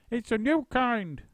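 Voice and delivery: wife faking sweetness; Missus Twit sweet. A narrator's reading. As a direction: sound innocent. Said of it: "Missus Twit said".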